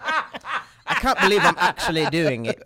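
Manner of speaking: slowly drawn-out attempt at a British accent; put-on British accent. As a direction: try a British accent, word by slow word. Repeats line in put-on diction.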